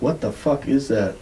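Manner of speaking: retold disbelief, lifted above the inner musing; mildly incredulous. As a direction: quote his growing bafflement, lightly. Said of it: "now he's, like, really, like".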